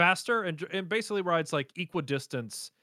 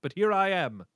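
a hint of a grand English tycoon; lightly voiced proud self-made man; understated posh memoir tone; posh rich Brit. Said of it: "one of those rich guys like".

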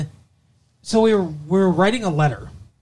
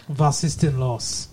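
put-on German accent; slower than usual. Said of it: "Can you do a German accent?".

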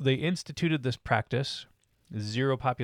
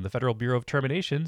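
gracious society hostess; 3 semitones higher, 4 dB louder, much faster than usual. Acted. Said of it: "said a very warm voice of a hostess".

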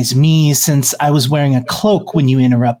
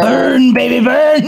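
gleeful shout; 7 semitones higher, slower than usual. Real, not acted. GM cheers the fire spell.

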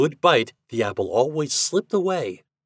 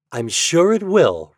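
cheery, raised, drawn-out assurance; smiling reply; 8 semitones higher, 7 dB louder, slower than usual. A narrator's reading. Mother Brown reassures Toad about the taffy, with a smile. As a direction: answer slowly and higher, with a smile. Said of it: "replied Mother Brown with a smile".

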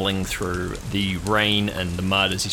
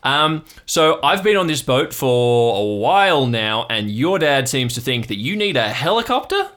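higher, louder uncle voice; Uncle Marv; 6 semitones higher, 7 dB louder than usual. Acted. Uncle tells his nephew about the helicopter request, hearty and raised. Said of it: "the unmistakable voice of, uh, Uncle Marv".

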